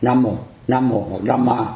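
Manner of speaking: "Nam Mô, Nam Mô hoặc Nam Ma" read slowly, each variant set apart. Shown as a demonstration. Teacher showing the students the readings of Nam Mô, slow and careful. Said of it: "thì mình phải đọc là Nam".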